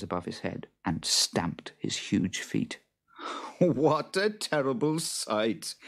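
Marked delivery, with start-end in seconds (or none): 3.6-5.8 high, slow mock horror; lightly acted amusement; amused mockery. A narrator's reading. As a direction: tease the creature with a raised, drawn-out voice. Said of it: "laughed Jude".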